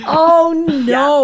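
sympathetic dismay. Real, not acted. Host hears seat is sticky, sympathetic dismay.

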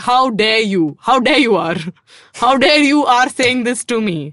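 mildly indignant retelling, building a little; retold aggressive outburst. Actress recounting how she confronted the makeup artist, mildly aggressive. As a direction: act out mild outrage, leaning on each repeated phrase. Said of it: "I got, like, very, like, aggressive".

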